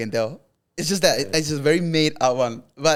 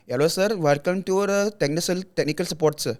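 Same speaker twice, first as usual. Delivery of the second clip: put-on light Indian accent, call-centre politeness; mock Indian tech support agent; light Indian accent as a helpdesk voice; 2 semitones higher, 3 dB quieter than usual. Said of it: "I did it immediately".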